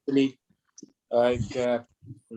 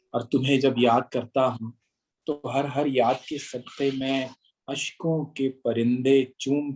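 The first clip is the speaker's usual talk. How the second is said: stately nazm recitation. Acted.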